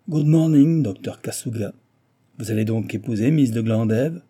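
lightly voiced engineer taunting his rival; mocking engineer. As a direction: greet an enemy with mock courtesy.

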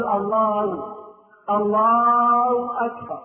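drawn-out chanted "Allaaw akbar"; ha replaced by waw. Shown as a demonstration. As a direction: swallow the ه of "الله" into a long w. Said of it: "يحرك الهاء خالص ويضع مكانها واو". (تكبير ممدود بواو بدل الهاء)

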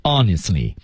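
"Honestly" stressed with a falling tone; stressed key word. Shown as a demonstration. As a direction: lean on "Honestly" and let it drop. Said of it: "关键词加重音向下沉". (重读"Honestly"，语调向下沉)

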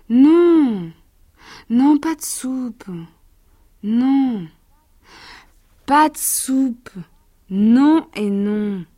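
put-on child digging in heels, slow on the last no; stubborn child refusing. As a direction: refuse the soup like a pouty boy. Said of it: "il s'écria". (enfant boudeur qui refuse)

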